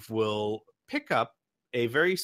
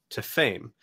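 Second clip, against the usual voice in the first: ordinary talk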